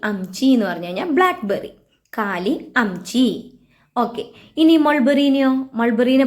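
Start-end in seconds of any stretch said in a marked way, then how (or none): 2.2-3.3 slow drill. Shown as a demonstration. Teacher repeats Hindi blackberry for learners, very slowly. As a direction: say കാലി അംചി very slowly, each syllable drawn out.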